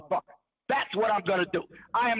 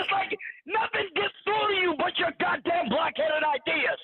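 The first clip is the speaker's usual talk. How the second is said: exasperated, higher-pitched cry of disbelief; frustrated outburst; 7 semitones higher than usual. Real, not acted. Fed up arguing with a stubborn debater, exasperated outburst. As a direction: let the frustration burst out.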